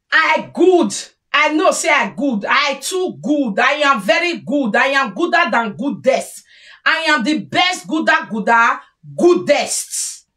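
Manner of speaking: lightly hammed-up boastful voice; mock bragging. Mocking a self-righteous boaster.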